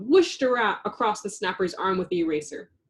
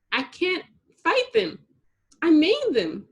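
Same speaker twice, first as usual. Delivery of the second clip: higher, small sorrowful voice; sad; 8 semitones higher, 5 dB louder than usual. A narrator's reading. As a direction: confess it sadly, near tears. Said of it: "she explained sadly".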